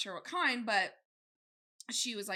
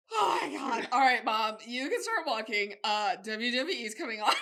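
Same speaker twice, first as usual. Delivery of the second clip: impatient loud son; 9 dB louder than usual. Retold or imitated. Impatient son voiced, laughing.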